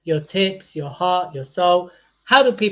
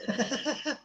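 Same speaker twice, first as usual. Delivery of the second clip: high giggle, cracking up; high breathy laugh; 8 semitones higher, 11 dB quieter than usual. Real, not acted. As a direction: burst of high laughter at own joke. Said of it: "how much I made myself laugh".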